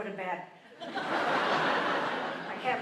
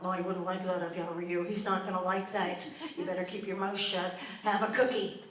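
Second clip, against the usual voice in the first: Victor Newman; 3 semitones lower than usual. Retold or imitated. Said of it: "sounds like Victor Newman off Young and the Restless".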